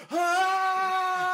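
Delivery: very high mock robot shriek; long, high-pitched mad-robot wail; angry robot scream. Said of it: "And he's mad. He's like".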